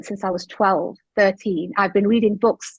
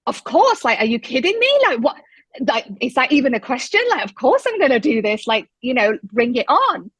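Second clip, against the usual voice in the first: thrilled; 3 semitones higher than usual. Retold or imitated. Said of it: "immediately I was like".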